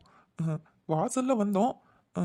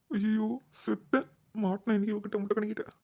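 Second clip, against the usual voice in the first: despairing aside; 3 semitones higher, 5 dB quieter than usual. Acted. Brother realises his sister will catch him, a soft despairing aside. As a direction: mutter to yourself that you're finished.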